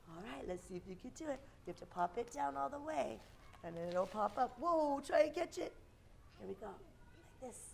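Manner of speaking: put-on bright, patient voice for small kids; kindergarten teacher voice. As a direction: explain a game to little children. Leads kids' game.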